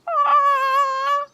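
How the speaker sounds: high squawking caw of panic; panicking crow. Acted. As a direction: cry out like a frightened bird. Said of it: "panicking crow inside of shirt".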